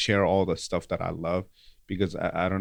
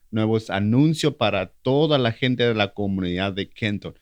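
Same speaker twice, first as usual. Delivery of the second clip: wrestling announcer voice; 3 semitones higher, 6 dB louder than usual. Pretend. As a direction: pump it up like a lucha libre announcer. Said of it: "your best wrestling announcing voice".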